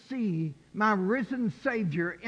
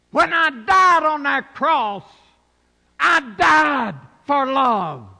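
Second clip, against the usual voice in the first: voice of Jesus; 6 dB louder than usual. Acted. Preacher speaks as Jesus to the congregation, building to a shout. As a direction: pour out love, rising to a cry.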